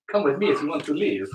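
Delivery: put-on Austrian vampire accent on Terminator line; Schwarzenegger vampire accent. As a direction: Arnold crossed with a Transylvanian vampire. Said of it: "half Schwarzenegger, half vampire accent?".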